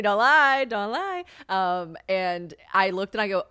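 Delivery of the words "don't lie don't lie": higher, drawn-out playful plea; playful pitched-up accusation; teasing scolding. Real, not acted. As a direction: sing it out at the producer, teasing. Teasing the producer shaking her head.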